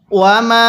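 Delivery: level chanted ওয়ামা, hugely stretched vowel; three-alif elongation. Shown as a demonstration. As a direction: hold the final "aa" of ওয়ামা very long. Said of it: "তিন আলিফ টান দিব". (ওয়ামা-র মিমে তিন আলিফ টান)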